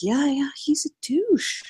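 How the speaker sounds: high, slow knowing agreement; acted-out drawn-out concession; mock confirmed verdict. Acts out her confirmed verdict.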